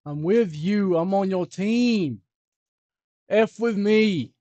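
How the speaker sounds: put-on high, slow, drawn-out kid voice; mock young person's slow singsong; kid speak. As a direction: talk like a whiny youngster. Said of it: "using kid speak today".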